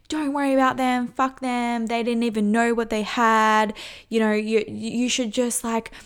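brisk, upbeat pep talk to a heartbroken friend. Retold or imitated. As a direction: cheer them up, a bit pushy and eager. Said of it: "or you're pep talking them".

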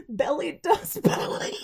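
playful put-on British film accent; imitated film accent. Joking about Billy doing ballet, imitated film accent. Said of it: "I just love this accent".

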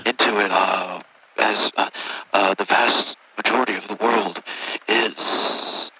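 hissing, stretched-out S sounds; drawn-out s like a snake. Acted. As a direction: drag out every S like a snake. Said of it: "why do you keep dragging out your S's like that?".

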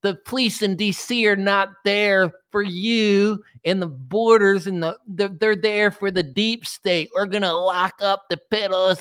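high, slow mock conspiracy preacher; mocking Simon Parks. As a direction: ham up a self-sure guru. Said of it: "he's like".

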